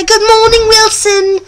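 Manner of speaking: high singsong-like hello to a pet waffle; playful greeting. Pretend. Owner answers Wilson the waffle, high playful greeting.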